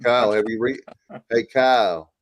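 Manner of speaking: lightly put-on imitation of a buddy's accent; Stevie. Teasing a co-host by asking Kyle in his voice, lightly imitated accent. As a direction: do a mild impression of a drawling friend. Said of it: "let me do my Stevie".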